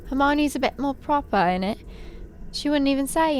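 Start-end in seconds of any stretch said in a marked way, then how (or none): 0.1-1.8 mock Cockney. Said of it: "Cockney accent".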